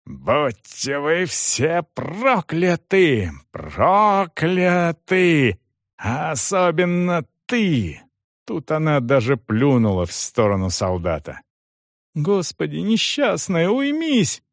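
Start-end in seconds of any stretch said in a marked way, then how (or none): 0.1-8.0 slow, higher, venomous cursing; screaming curse. A narrator's reading. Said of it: "и заорала". 12.1-14.4 much higher, desperate pleading; pleading priest. A narrator's reading. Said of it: "умолял её поп".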